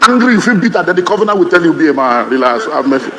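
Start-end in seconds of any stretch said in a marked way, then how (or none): 1.7-3.1 calm counsel. Retold or imitated. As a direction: lower and soften, talking him down. The covenant calmly advising.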